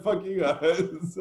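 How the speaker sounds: slow, laughing mock defiance. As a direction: chuckle it out slowly at them. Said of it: "It's like".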